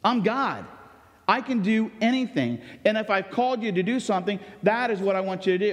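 God scolding a reluctant Moses, angry. Retold or imitated. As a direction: voice God's rebuke with heat. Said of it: "God became angry with Moses".

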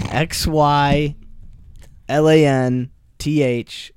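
letters named carefully; spelling it out. Shown as a demonstration. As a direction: spell each letter deliberately. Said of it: "spells the word".

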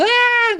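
high, loud imitated crowd scream; crowd's yell. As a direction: imitate an excited audience screaming. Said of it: "o pessoal gritou". (grito agudo imitando a plateia)

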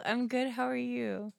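faint, hard to hear; barely audible. Real, not acted. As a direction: say it too softly over the phone. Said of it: "your voice is very faint".

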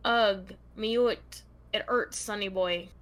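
halting attempt at a Scottish accent. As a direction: read it haltingly, trying to sound Scottish. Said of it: "supposed to read in a Scottish accent".

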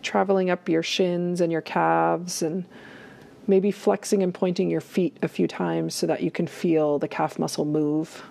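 calm guided body scan with long pauses; unhurried meditation guide, pausing often. Acted. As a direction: lead listeners gently inward, leaving space between phrases.

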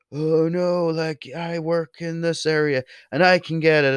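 high-pitched mocking commenter voice; put-on high voice for an objector. Mocking other Irish commenters' objections.

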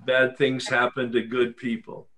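said plainly, no hedging; firm statement. Shown as a demonstration. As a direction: state it as a settled fact. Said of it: "let's try it again".

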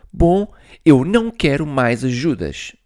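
a touch of cross big brother; mildly angry. Acted. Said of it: "disse zangado". (um pouco zangado)

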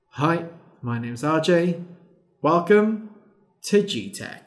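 put-on chirpy young YouTuber intro; kid vlogger intro. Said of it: "the G Tech videos were like".

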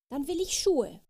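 put-on high, loud child's yell; a stubborn fairy child screaming for shoes; bratty storybook shout; shouted demand. A narrator's reading. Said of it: "schrie die kleine Fee".

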